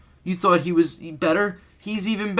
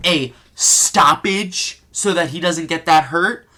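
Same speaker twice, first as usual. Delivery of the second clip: mocking their wording; slower than usual. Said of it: "say it the way that they say it".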